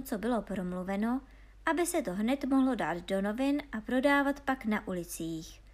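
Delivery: ordinary delivery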